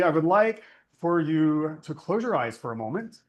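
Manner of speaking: unhurried meditation voice with long pauses; guided meditation. Acted. Teacher leads listeners to think of someone trusted, guided meditation. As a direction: guide them inward, leaving space after each phrase. Leads a closed-eye reflection.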